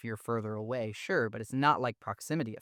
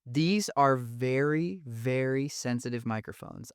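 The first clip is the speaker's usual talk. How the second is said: slow, stretched "very, very", the first "very" rising and the second falling; drawn-out "These are very," then a heavy "very sensitive"; emphatic warning; slower than usual. Real, not acted. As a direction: lean hard on each "very" as a serious caution. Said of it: "I cannot stress that enough".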